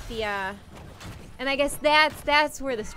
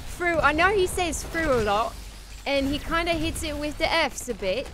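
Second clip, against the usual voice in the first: Michael Caine impression; 4 semitones higher than usual. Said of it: "practiced a Michael Caine".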